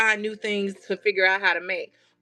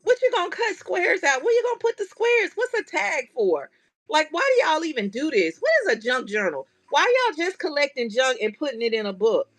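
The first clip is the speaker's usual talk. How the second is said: confused questions, pitched up, quick; baffled friends; 3 semitones higher than usual. Retold or imitated. Friends questioning her craft hobby, mock baffled. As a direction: play the puzzled friend who doesn't get it. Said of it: "they looking at me like".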